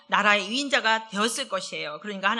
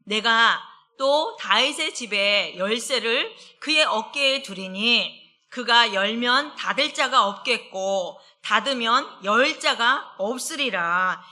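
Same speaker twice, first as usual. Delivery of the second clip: slow, weighty reading of the verse; scripture reading; 4 dB louder, slower than usual. Acted. Preacher reading scripture to the congregation, slow and weighty. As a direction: read the verse slowly and solemnly.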